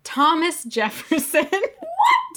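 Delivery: laughing squeal, pitch jumping way up; giddy high-pitched what; surprised reveal. Real, not acted. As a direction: announce the name, then shriek with delight. Revealing the surprising quote author.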